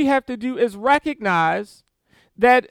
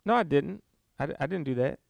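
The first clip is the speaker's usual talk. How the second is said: lightly voiced sinner protesting, softer and lower; mock denial; 7 semitones lower, 8 dB quieter, faster than usual. Preacher imitating a sinner calling God a liar, soft mock denial. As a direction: brush off the accusation like a guilty child. Sinner denying God's accusation.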